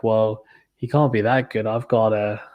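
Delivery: half-hearted attempt at an Aussie accent; badly faked Australian accent, soon abandoned. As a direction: have a weak go at sounding Australian. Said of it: "I can't do Australian accent".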